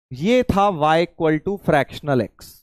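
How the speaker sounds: very slow, each word drawn out; slow it right down so the student follows; slow motion. Shown as a demonstration. Teacher to confused student, in deliberate slow motion. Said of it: "मैं बेटा slow motion में बोल रहा था".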